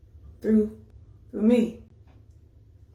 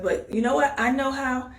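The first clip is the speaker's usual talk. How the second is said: higher, hopeful dad voice; a father lifting his son's spirits; proud father; 6 semitones higher than usual. Retold or imitated. Dad telling his son he beat cancer, hopeful and higher. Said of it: "his dad was like".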